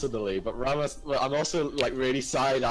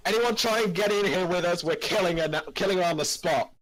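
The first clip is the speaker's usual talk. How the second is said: threatening character voice; 4 semitones higher than usual. Acted. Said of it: "respond with voices".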